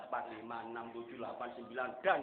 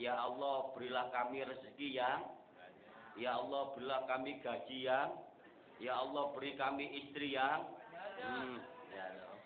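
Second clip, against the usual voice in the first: a hint of a greedy pleader; mock greedy prayer. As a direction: list the wishes like a greedy worshipper. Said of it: "kita kalau berdoa itu". (meniru orang berdoa minta banyak)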